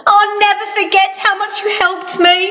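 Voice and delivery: lightly voiced grateful Mister Small. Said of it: "relieved Mister Small".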